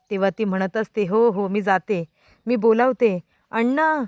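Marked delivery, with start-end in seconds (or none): 1.1-4.0 urgent, rising louder as she calls Anna; frightened wife calling Anna from the door. Acted. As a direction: hurry and call for help, louder at the end. Wife rushing out calling for help.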